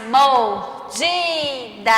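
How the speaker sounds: MORDIDA very slow, DI stretched; stress on middle syllable. Shown as a demonstration. Teacher confirming for pupils, DI drawn out in "Mordida". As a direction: hold DI long in "Mordida". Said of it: "Que eu falo mais".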